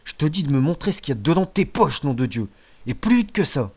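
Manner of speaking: angry loud order; angry father. Acted. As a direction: lose patience with the boy. (père en colère)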